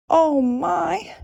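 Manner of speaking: high, startled exclamation; cried out. A narrator's reading. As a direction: gasp it out in alarm. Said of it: "she cried out".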